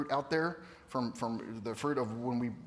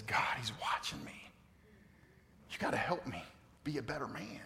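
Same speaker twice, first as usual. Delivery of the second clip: whispered, softer plea to God; hushed prayer; 3 semitones lower, 10 dB quieter than usual. Retold or imitated. Father on his knees praying to God, whispered. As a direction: breathe it out like a humbled prayer.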